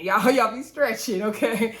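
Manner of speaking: laughing as she repeats it; laughing tease. Real, not acted. Vlogger repeating the tease to cast members, laughing. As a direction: chuckle through the tease.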